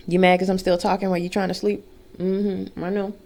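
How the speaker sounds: hushed, gentle words to a pet; soft talk to dog. Real, not acted. Soothing the dog while filming, softly. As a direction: murmur to the dog beside you.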